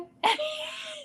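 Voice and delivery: a burst of high laughter; high squealing laugh. Real, not acted. Laughing at her Walmart cousin story, high squealing laugh.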